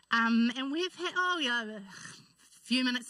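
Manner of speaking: tears welling up as she speaks; waterworks starting. Real, not acted. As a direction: voice starting to break. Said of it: "here goes the waterworks already".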